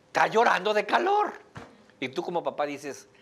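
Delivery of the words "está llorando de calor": louder, firm repeat; insistent mother. Retold or imitated. The mother insists to the father that the baby is crying from heat. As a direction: mom stating it plainly and firmly.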